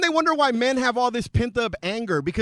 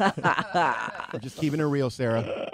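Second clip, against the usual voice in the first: laughing; 6 semitones lower, 4 dB quieter, much slower than usual. Real, not acted. Laughing after his zinger.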